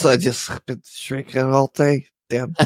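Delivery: slow, hiccupy speech; with hiccups. Real, not acted. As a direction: talk through the hiccups. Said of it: "He's got some wicked hiccups".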